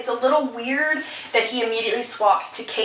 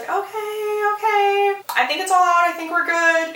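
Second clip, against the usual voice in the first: a much higher, hurried, flustered protest; Kate's high flustered voice; 9 semitones higher, 3 dB louder than usual. Retold or imitated. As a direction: play Kate squeaking that it's all fine. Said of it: "She's like".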